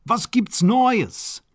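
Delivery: very high, drawn-out German question; excited squeal. Acted. Baron asking his cousin for news, high slow squeal. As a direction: squeal it slowly with delight. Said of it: "he squealed".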